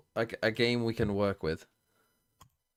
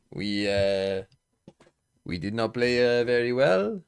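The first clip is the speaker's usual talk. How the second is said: a loose mock Arsene Wenger French accent, a bit louder; 5 dB louder than usual. Mocking the player's accent as Arsene Wenger, French accent. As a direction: lightly voice Wenger's French-accented post-match line. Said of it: "He's got, like, the Arsene Wenger".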